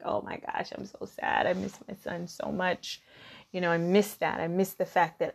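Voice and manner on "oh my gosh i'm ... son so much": whispered, grieving sigh of a line; a soft, sorrowful mock lament; imitating her sad self. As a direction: breathe it out as if wallowing in sorrow.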